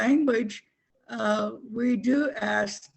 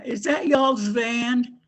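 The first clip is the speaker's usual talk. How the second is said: quoted Oklahoma question; 5 dB louder, slower than usual. Retold or imitated. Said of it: "the one thing I've heard them say is".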